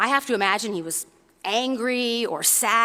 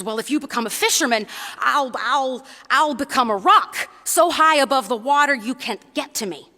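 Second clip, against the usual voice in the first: defiant little bunny; 3 semitones higher, 5 dB louder than usual. Acted. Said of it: "And he says".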